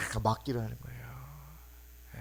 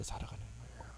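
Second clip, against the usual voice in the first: whispered point; 17 dB quieter, faster than usual. Real, not acted. Preacher whispering the key point to the congregation. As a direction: whisper it intimately.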